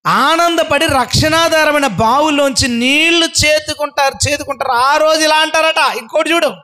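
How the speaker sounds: high, ringing sermon delivery; impassioned preaching. Real, not acted. Preacher proclaims water drawn with joy from wells, impassioned preaching.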